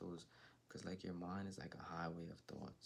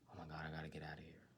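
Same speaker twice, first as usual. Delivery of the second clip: mock panic; 2 semitones lower, much faster than usual. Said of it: "the vibration of".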